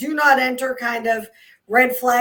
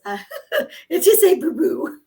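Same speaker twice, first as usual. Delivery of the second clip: laughing; 5 semitones higher than usual. Retold or imitated. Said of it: "Kevin was like".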